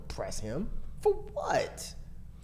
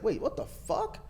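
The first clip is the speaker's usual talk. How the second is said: retold angry disbelief; 6 dB quieter, slower than usual. Boyfriend retelling when he learned she didn't know him, incredulous. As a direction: squeak it out in disbelief. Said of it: "that's when I was mad".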